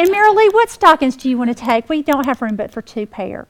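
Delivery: rattling off packing questions to Mary Lee; busy chatter. Retold or imitated. Mother chatting to daughter about packing stockings, busy and loud.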